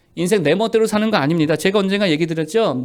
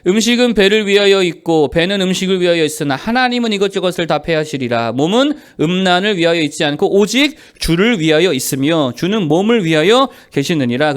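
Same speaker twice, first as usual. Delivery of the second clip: loud, measured Bible reading; firm read-aloud of scripture; 4 dB louder than usual. Acted. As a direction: read the verse out for a congregation. Leads congregational scripture reading.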